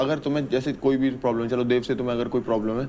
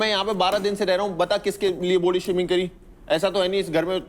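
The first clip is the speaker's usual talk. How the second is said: higher, raised voice in self-defence; heated protest; 5 semitones higher than usual. Real, not acted. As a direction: argue back hard, voice up. Defending himself in heated argument. (गुस्से में ऊँची आवाज़ में सफ़ाई देना)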